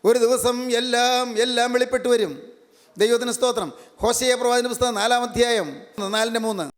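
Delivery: high, sustained preaching voice; declamatory sermon delivery. Real, not acted. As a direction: proclaim it phrase by phrase to a congregation. Preacher proclaims to congregation.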